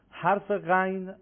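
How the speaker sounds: teacher's slow model of غین; slow demo of ghayn. Shown as a demonstration. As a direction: stretch the غین from the upper throat. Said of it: "مخرج حرف".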